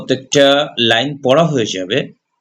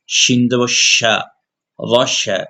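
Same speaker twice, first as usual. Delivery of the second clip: slow spelling drill; much slower than usual. Shown as a demonstration. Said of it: "হরকতের উচ্চারণ".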